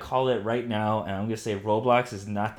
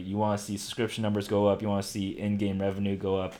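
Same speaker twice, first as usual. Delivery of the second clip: too much caffeine; faster than usual. Real, not acted. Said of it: "sorry, I had, like, two giant cups of coffee".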